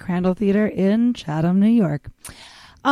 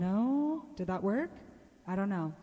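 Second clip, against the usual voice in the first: far off; 2 semitones higher, 13 dB quieter than usual. Real, not acted. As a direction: voice heard from far away. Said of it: "Now you're just further away".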